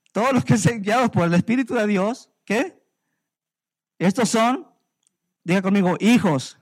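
declaiming to the church so they answer "hijos"; preaching call and response. Real, not acted. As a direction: call it out and pull the answer back from them.

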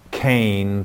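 "kane" said carefully as one clear syllable, like cane; Hebrew pronunciation. Shown as a demonstration. Host explaining the Hebrew word for grace to a listener, saying "kane" carefully. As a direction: pronounce "kane" slowly and distinctly, rhyming with rain. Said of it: "phonetically spelled out K H A N E".

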